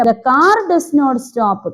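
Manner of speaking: put-on very slow, word-by-word reading for children; deliberate storybook reading; story reading. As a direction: read it out slowly, every word clear. Reads story text slowly.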